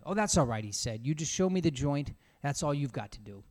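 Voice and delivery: curt, cool reply; cold. Acted. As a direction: keep him at arm's length. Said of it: "looking at the assassin coldly".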